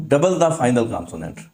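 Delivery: slow, clear rule reading; slow dictation. Shown as a demonstration. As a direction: dictate it slowly. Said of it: "dictating rule slowly". (धीमे से लिखवाना)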